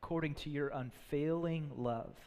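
reverent psalm read; humble prayer. Acted. Reads David's psalm of repentance.

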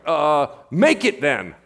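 loud, slow mock order; stall, then blurt the order loudly; hammed-up fumbling proclamation; improvised command. Peter improvising a different command.

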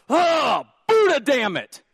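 high, loud mock outburst; hammed-up workplace curse; mock angry curse. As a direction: swear like a furious coworker. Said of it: "get super mad at someone".

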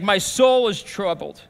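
troubled outburst, mildly emphatic; understated overwhelmed confession. Retold or imitated. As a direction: retell it with a touch of distress. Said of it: "I'm overwhelmed".

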